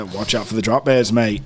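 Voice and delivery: low-pitched mock Aussie warning; lightly done Australian local; Australian accent. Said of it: "that's my Australian accent".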